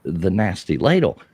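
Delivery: put-on finding the old ladle while cleaning out the car; surprised discovery. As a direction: gasp it out on finding it. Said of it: "I'm like".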